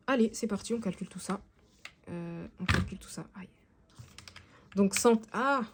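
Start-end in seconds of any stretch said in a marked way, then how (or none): 2.1-3.3 whispering. Real, not acted. Whispered repeat while calculating. 3.4-5.6 wincing from a sudden cramp; getting a leg cramp. Real, not acted. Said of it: "j'ai une crampe".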